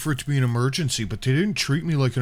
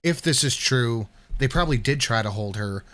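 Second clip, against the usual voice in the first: slower, deliberate repeat. Shown as a demonstration. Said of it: "I'm gonna have to say that a lot".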